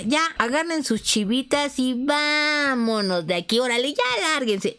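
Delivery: mock fed-up eviction; fed-up order. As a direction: throw them out, annoyed. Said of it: "ya harta".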